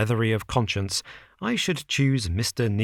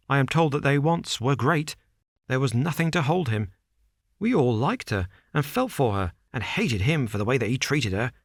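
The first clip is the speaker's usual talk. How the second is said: higher, hurried, agitated man; nervous Bates; 4 semitones higher than usual. Acted. Nervous manager warns Holmes against his employer, hurried. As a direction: rush it out, anxious.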